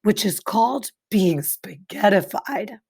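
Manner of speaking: put-on clear, expressive read-aloud to children; story narration. A narrator's reading. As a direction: read it like a picture book for kids. Reads picture book to class.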